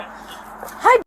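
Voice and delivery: high-pitched little greeting. Retold or imitated. Mother re-enacting her hello to her son, little high hi. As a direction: pop out a small, high "hi".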